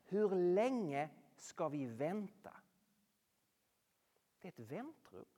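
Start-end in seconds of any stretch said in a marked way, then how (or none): 0.0-2.6 pleading cry. Retold or imitated. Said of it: "Utan de ropar så här".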